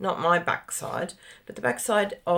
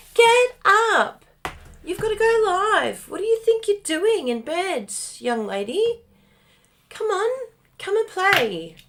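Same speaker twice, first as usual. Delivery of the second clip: very high, squeaky little pet dog voice; 12 semitones higher, 4 dB louder than usual. Retelling how the dog woke them up: voicing the dog Bella. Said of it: "in the voice that she said it".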